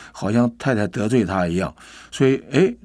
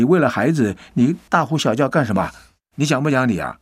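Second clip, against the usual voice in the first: angry retort; 3 semitones higher than usual. Retold or imitated. Husband shouts back in quarrel.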